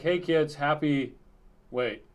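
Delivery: cheery morning broadcast to the house; household announcement. Retold or imitated. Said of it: "sends out a broadcast to all the smart speakers".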